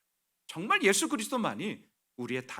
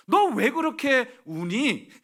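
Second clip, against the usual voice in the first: slow, higher, louder asking why they cry; gentle questioner; 7 semitones higher, 6 dB louder, slower than usual. Acted. Someone asking a crying believer why they weep, slow and wondering. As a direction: ask slowly, as if puzzled at the tears.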